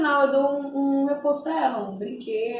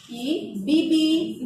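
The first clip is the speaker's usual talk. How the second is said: playful car sound; 3 semitones higher, much slower than usual. Shown as a demonstration. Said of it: "tô brincando com o carro".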